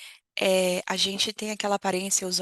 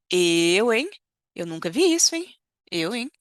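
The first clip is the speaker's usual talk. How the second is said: scandalised mother; 4 dB louder than usual. Retold or imitated. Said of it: "ela tá falando assim".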